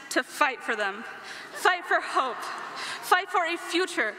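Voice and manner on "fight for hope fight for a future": rally speech. Real, not acted. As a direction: rouse the crowd, building up. Closing call to action, rising.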